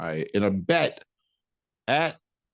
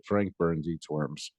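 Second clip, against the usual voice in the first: slow quoting; 6 semitones lower, 4 dB quieter, slower than usual. Retold or imitated. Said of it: "That was a mash reference".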